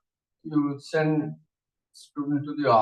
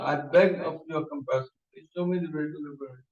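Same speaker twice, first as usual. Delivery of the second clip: quick repeated plea; 3 semitones lower than usual. Retold or imitated. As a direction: rush through the plea a second time.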